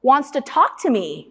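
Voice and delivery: slow, lightly awed wow; mildly impressed imitation. Student after an hour with Apple's founder, mildly awed. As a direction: act out a starstruck student, understated. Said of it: "was so impressed".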